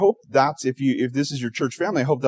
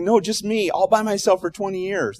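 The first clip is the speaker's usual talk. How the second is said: high, eager castaway; 9 semitones higher than usual. Acted. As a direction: squeak it out like a proud castaway. Castaway voiced in joke.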